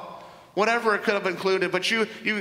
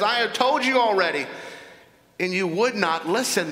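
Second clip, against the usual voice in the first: frustrated; 2 semitones higher than usual. Acted. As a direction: let the blind man's patience wear thin. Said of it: "he's kinda getting frustrated here".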